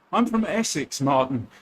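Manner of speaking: I'm from Essex in a broad Essex accent. Shown as a demonstration.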